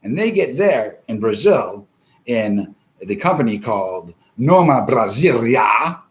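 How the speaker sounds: ordinary delivery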